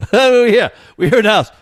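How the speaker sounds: loud, high-pitched yell from afar; acted shout. Neighbour yelling from the house about lost cable, mock shout. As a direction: holler it like a comic complaint.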